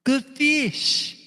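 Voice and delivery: hint of the singer's soft phrasing; lightly voiced singer line. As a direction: fan quoting the singer's catchphrase in a light imitation.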